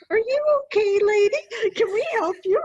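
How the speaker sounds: hurried concern from passing hikers; concerned strangers. Retold or imitated. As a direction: strangers call out anxiously to a crying woman. Passersby find her crying.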